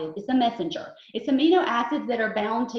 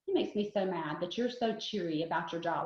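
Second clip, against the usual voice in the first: grumpy husband; 6 semitones lower, 7 dB quieter than usual. Retold or imitated. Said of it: "he's like".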